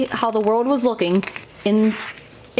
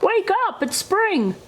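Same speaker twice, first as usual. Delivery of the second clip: excited call; 8 semitones higher than usual. A narrator's reading. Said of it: "shouted Frog".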